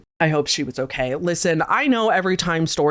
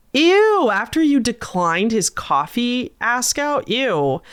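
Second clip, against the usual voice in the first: disgusted; 5 semitones higher, slower than usual. Real, not acted. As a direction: recoil in disgust. Disgusted reaction to creep.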